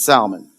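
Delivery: "salmon" with its L sounded. Shown as a demonstration. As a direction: pronounce the L in "salmon". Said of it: "my wife says I say this wrong".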